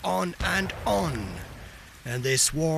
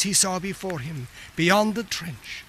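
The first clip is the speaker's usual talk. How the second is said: usual speaking voice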